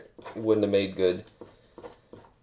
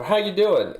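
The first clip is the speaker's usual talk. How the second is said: bright high chirpy greeting, louder; cheery greeting; 11 semitones higher, 6 dB louder than usual. Retold or imitated. Greeting somebody in passing with a bright chirpy hello.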